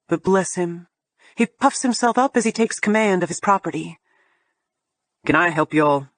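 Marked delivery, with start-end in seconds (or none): 5.2-6.1 low gruff homeowner; a hint of a gruff southern man. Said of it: "he asks with a gruff voice".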